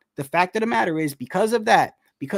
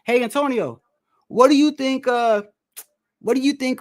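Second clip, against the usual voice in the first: higher, raised announcer voice asking a question; imitating announcer; 5 semitones higher than usual. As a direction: play the TV host, pitched up. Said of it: "and they said".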